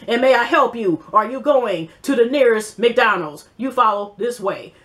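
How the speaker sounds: a hint of a stiff, formal robot assistant voice; lightly mock her resume-speak like a phone assistant; poking fun at a reality star's stiff way of talking, mild mock voice; mocking impression of a rapper. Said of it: "'cause she talks like this".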